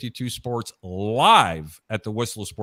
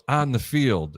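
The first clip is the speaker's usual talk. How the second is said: boring announcer; slower than usual. Retold or imitated. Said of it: "the announcer goes".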